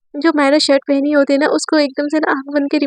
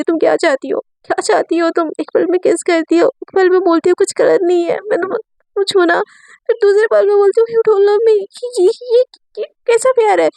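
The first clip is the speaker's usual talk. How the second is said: upset outburst; 5 semitones higher than usual. Acted. Myra's hurt outburst at Riya.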